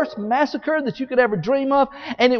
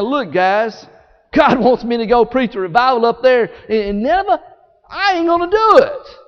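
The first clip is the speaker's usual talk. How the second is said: bragging Jonah. Acted. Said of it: "he started bragging to the sailormen".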